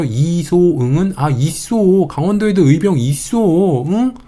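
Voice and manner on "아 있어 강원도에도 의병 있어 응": lightly acted, insistent protest; mock indignation. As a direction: insist as if a bit fed up, drawing out the endings. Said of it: "열받아서 이렇게 말하는 거예요".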